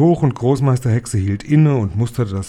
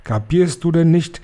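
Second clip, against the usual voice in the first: high, louder raging screech; high, loud furious witch shriek; 7 semitones higher, 3 dB louder than usual. Acted. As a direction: tear into the foolish witch. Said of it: "kreischte die Hoch- und Großmeisterhexe".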